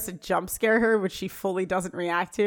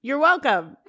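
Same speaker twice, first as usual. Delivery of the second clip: higher, half-hearted mock shout; mock yell up stairs; 4 semitones higher, 4 dB louder than usual. Annoyed Corey answers up the stairs, mock yell. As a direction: call it up the stairs, lightly acted. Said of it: "He just yells up the stairs".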